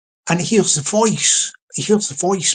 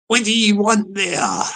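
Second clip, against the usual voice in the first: slow, raised pitch, falling away at the end; dramatic doorstep challenge; 4 semitones higher than usual. Acted. Resident answering the doorbell to the gangster, dramatic challenge. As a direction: draw it out theatrically, a little higher. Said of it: "I'm doing a bit of dramatic license here".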